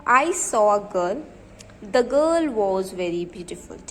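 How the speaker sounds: each word read slowly and evenly, as if dictating; slow, even classroom dictation. Shown as a demonstration. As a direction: spell the sentence out slowly for the class. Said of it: "मैं आपको example बताती हूँ".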